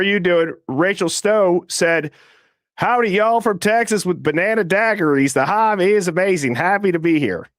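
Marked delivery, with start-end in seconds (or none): 2.7-7.5 a hint of a Texas twang, lightly put on; half-assed Texas accent. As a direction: toss off a lazy Texas accent, lightly done. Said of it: "that was a half-assed accent".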